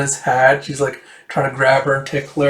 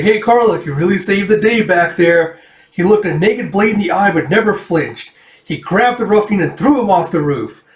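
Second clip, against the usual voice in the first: higher, louder, gushing hero praise; excited praise; 5 semitones higher, 3 dB louder than usual. Retold or imitated. Villager gushing to Karluk about his rescue, excited. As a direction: hype him up like a storyteller.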